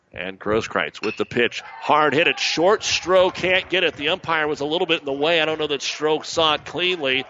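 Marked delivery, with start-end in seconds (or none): 1.8-7.3 excited. Real, not acted. Play-by-play of a hard hit.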